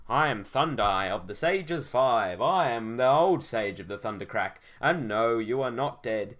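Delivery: lightly voiced grand old sage. Old sage introducing himself to the hero, solemn. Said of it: "he said like the voice before".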